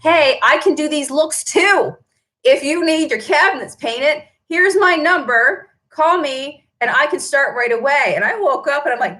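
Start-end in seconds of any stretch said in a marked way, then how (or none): 0.0-8.1 pushy poster. Retold or imitated. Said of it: "tried to post on my Junk Monkey Paint Company page saying".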